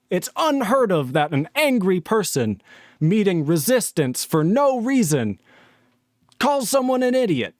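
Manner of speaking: mock-amazed sarcasm at the end; sarcastic mock disbelief. Real, not acted. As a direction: lay the irony on thick, climbing. Sarcastic rant about calling names.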